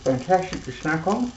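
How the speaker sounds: talking with a mouth full of food; chewing Brussels sprouts while talking. Real, not acted. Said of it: "Excuse me for talking with my mouth full".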